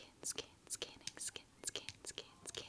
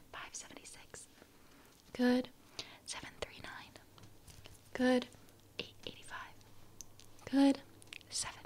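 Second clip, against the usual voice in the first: faint distant whisper; 5 dB quieter than usual. Acted. Whispered numbers for hearing test.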